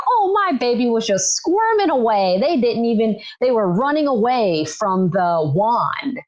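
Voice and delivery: playful mimicry of delighted expectant mothers; gushing mother. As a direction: lightly imitate a mom cooing about her baby. Voicing gushing mothers after ultrasounds.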